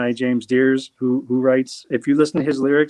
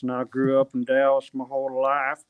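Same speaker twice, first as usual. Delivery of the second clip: Texas accent. Shown as a demonstration. Guest shows how some Texans talk, in a light Texas accent. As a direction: show how a thick-accented Texan sounds. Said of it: "one guy will be talking like this".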